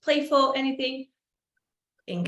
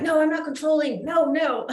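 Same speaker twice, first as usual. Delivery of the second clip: high, loud playful denial breaking into a laugh; hammed-up self-correction, half laughing; mock protest; 8 semitones higher, 6 dB louder than usual. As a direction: protest too much, poking fun at yourself. Acts out catching herself being controlling.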